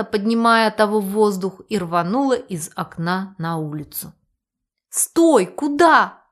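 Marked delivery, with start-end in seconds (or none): 5.0-6.2 high, loud shout to stop; alarmed bark. A narrator's reading. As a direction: call after a runaway. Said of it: "рявкнула я".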